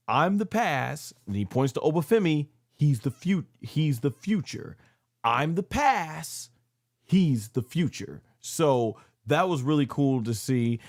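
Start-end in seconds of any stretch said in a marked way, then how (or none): 0.1-8.2 slow, high, drawn-out announcement of passing the torch; each word stretched out slowly, like a ceremony; grand proclamation. Retold or imitated. Brock announcing in the ring.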